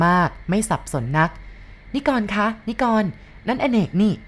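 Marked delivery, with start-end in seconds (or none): 1.6-4.1 startled exclamation. Acted. Wife spots lost friend on road.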